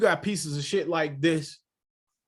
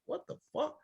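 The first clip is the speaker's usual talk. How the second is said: high, soft disbelieving squeak; mock disbelief; 12 semitones higher, 8 dB quieter than usual. A man mimics his own stunned reaction, squeaking high.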